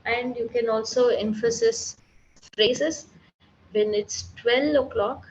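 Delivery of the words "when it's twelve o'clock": "twelve" lifted and pressed harder; stress on twelve. Shown as a demonstration. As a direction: punch the word "twelve". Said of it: "So when I say twelve, then that's an emphasis".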